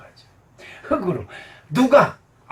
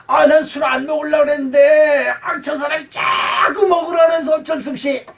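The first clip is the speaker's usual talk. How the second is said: mock excuse; 8 semitones higher, 6 dB louder than usual. Drunkard excusing himself, mocked.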